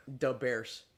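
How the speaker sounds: mock Chicago sports-fan catchphrase; Chicago accent. Quoting the Saturday Night Live skit, Chicago accent. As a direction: do the skit's Chicagoans. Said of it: "just talk like Chicagoans".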